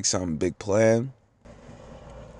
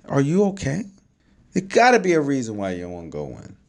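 worried dad; 9 semitones higher, faster than usual. Retold or imitated. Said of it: "And I was like".

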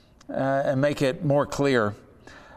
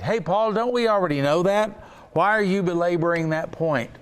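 mock objector; 3 semitones higher than usual. Imagined listener objecting to Paul.

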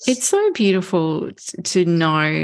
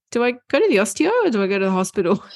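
lightly imitated son, hurried and higher; unsure son; 4 semitones higher, much faster than usual. Son asks mom where to go, lightly hurried and unsure. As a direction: rattle off the question in a higher voice. Retells son's confused phone question.

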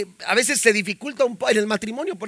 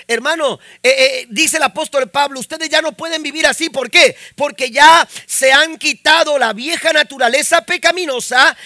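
raised, emphatic pulpit voice; forceful preaching; 3 semitones higher, 4 dB louder than usual. Real, not acted. Preacher explaining Paul's words to church, raised and forceful. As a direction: press the point on the congregation.

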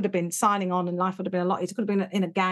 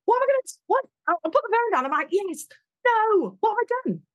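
laughing panic; 11 semitones higher than usual. Real, not acted.

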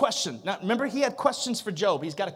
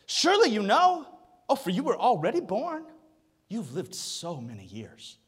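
a touch of sarcasm; sarcastic God. Acted. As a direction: tease Job with the answer. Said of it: "We're talking about light here".

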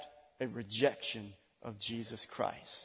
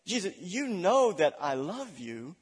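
hedging; 4 semitones higher than usual. Acted. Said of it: "he said it like this".

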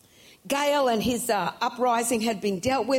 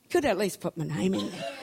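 mock miffed, laughing; 3 semitones lower than usual. Preacher voicing the woman left unnamed, laughing mock complaint. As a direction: play the unnamed woman lightly peeved. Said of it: "I'd be go".

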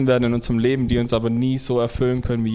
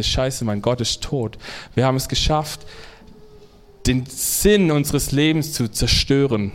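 lamenting. Retold or imitated. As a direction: mourn it as a loss. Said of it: "beklagend meinte und traurig meinte".

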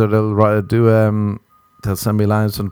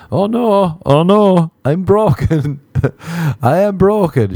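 mock panic; 8 semitones higher, 3 dB louder, slower than usual. Realizing he's the problem.

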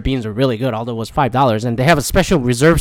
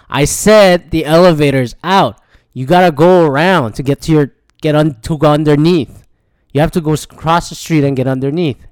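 insistent mock yell, louder at first; retold yelling; 3 semitones higher, 5 dB louder than usual. Stranger directing someone round the broken elevator, retold yelling. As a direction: imitate a man loudly repeating himself. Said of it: "like, yelling at me".

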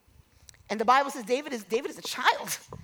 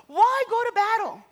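high, raised battle taunt; big booming challenge, pitched up; giant's yell; 8 semitones higher, 3 dB louder than usual. Acted. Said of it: "he begins to yell to Israel".

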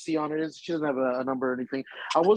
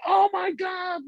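high fanboy squeal; mock an overexcited fan losing it; starstruck gushing; slower than usual. Fan imagining gushing at his idol, starstruck shout. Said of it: "not pull my phone out and be like".

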